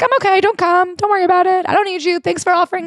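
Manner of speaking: high, breezy dismissive voice; hammed-up wife turning down help; mock brush-off. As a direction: wave him off in a high put-on voice.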